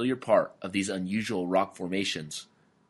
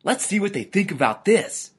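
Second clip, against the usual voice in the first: high-pitched cartoon scheming; high, determined inner monologue; lizard thinking aloud; 10 semitones higher, 3 dB louder than usual. A narrator's reading. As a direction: hatch your plan in a high lizard voice. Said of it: "he thought to himself".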